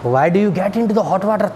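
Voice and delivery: slow, deliberate warning; slow quiet warning. Retold or imitated. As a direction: warn him slowly. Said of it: "तो मैंने उससे बोला". (बदमाश को धीरे-धीरे चेताते हुए)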